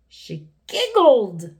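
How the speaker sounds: high, loud, slow mock wail; blubbering. A narrator's reading. King appalled at her giggling, mock blubbering. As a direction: stretch it into a hammed-up cry. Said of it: "blubbered the king".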